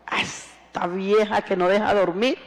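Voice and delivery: playful fond grumble, rising at the end; affectionate mock complaint. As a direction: tease an old friend with affection. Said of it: "con mucho cariño me dijo".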